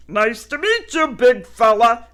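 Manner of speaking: loud, friendly; jovial welcome; hearty dog greeting. Acted. Picket greets.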